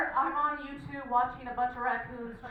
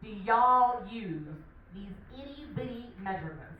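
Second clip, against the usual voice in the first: put-on country bumpkin accent; 2 semitones lower, 3 dB louder than usual. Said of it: "so that my country bumpkin accent".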